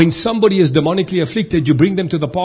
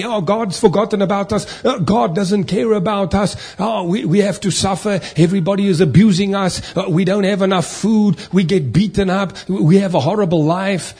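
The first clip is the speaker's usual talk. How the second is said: higher-pitched griping of the Israelites; mock complaining; 4 semitones higher than usual. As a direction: complain in a string of aggrieved protests, pitched up. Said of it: "they were complaining every single day".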